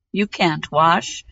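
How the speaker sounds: put-on slow, scornful young prince. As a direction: dismiss them slowly as the prince. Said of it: "said the prince".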